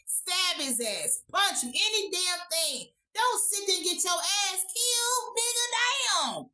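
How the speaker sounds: high-pitched, exasperated rant, last words drawn out; exasperated scolding. Real, not acted. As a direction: scold way up high, stretching the ending. Scolds the passive victim.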